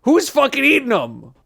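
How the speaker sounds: loud and high, disbelieving; incredulous outburst. Real, not acted. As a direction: blurt it out in disbelief. Incredulous outburst at candy stats.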